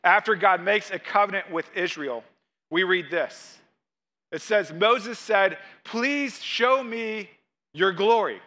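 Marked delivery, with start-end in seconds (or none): 4.7-8.4 raised, drawn-out plea from the page; dramatic scripture reading. Acted. Preacher reads Moses' plea to God, dramatic scripture reading. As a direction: read the plea slowly and solemnly.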